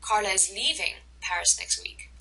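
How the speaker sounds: "leaving" emphasized above the other words; stress on LEAVING. Shown as a demonstration. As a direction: put the main stress on "leaving". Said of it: "The same thing with".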